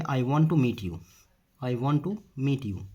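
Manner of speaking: slow, word by word; measured dictation-style delivery; slow model sentence. Shown as a demonstration. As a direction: say it slowly for learners, spacing each word. Teacher repeats sentence slowly for learners.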